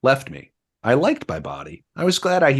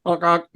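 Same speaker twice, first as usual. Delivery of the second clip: horn honk imitation; 7 semitones higher than usual. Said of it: "Harpo honked a horn".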